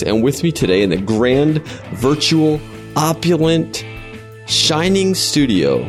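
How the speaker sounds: grand, slow showman's build-up; mock grandiose. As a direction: talk it up like a luxury studio. Mock grand studio intro.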